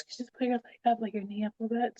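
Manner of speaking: quietly coax, as the midwife did; gentle. Retold or imitated. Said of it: "I remember being so gentle around me".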